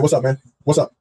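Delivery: low-pitched "like a man" greeting; trying to sound manly. Retold or imitated. Greeting the maintenance man at the door, put-on manly. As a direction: drop the voice to act manly. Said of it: "trying to sound like a man".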